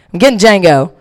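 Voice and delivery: usual speaking voice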